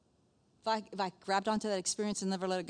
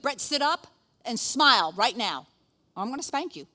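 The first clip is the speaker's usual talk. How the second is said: lightly acted parental threat, a bit louder; stern parent; 2 semitones higher, 5 dB louder than usual. Parent to kid at the family photo, stern warning. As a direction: order an uncooperative kid about. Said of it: "talking like this to our kid".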